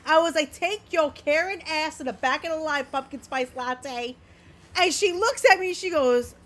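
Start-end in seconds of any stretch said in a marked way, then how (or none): 0.5-4.2 lightly put-on surfer dude; a hint of a laid-back surfer bro. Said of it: "that voice?".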